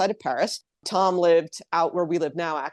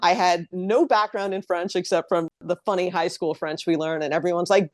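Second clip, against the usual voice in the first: usual speaking voice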